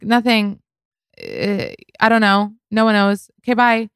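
high-pitched, evasive brush-off in short bursts; high voice, ducking out of the conversation; flustered backtracking. Retold or imitated. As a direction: imitate someone hurriedly playing innocent. Woman hastily takes back her hint.

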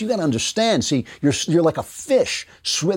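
put-on voice parroting the other side; mocking imitation. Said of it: "they keep saying this".

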